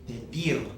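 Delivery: "Pedir" stressed on its final -dir; stress on the last syllable. Shown as a demonstration. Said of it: "natural stress comes on the last syllable".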